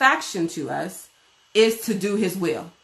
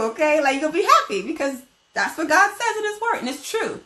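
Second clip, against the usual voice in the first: excited preaching; 7 semitones higher, faster than usual. Real, not acted.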